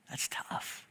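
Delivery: near-whispered, sobered aside; hushed reaction. Real, not acted. Preacher reacting to a hard teaching, nearly whispered. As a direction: let it out under your breath.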